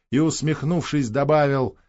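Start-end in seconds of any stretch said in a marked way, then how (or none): none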